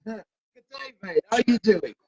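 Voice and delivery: a light mock Australian "Good day, mate"; hammed-up Australian greeting, barely shifted; Australian accent. Guest shows off his Australian accent to the host, mock Australian. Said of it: "How's my accent?".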